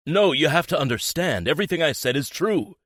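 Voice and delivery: high, loud urgent pleading; desperate plea. A narrator's reading. Boyfriend begging girlfriend to believe him, loud urgent. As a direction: beg her to believe you.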